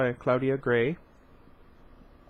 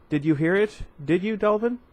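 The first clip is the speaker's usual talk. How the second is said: put-on excited kid; 6 semitones higher than usual. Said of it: "jumping with excitement".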